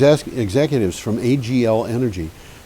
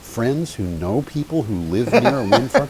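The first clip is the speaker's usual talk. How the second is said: higher, puzzled echo of a claim; retold incredulous thought; 4 semitones higher than usual. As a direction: repeat it back in mild disbelief. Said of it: "And I thought".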